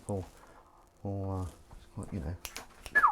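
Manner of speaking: slow, whispered aside; slow whispered confidence. Real, not acted. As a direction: hush it like a secret. Confiding about Paul's shirt.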